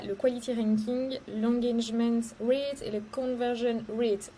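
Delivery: English terms in a French accent; slightly slowed English jargon in a French accent. Real, not acted. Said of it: "On excusera mon accent anglais".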